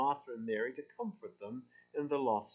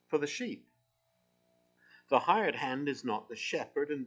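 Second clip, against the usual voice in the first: scripture reading. Acted. Reads scripture aloud to congregation.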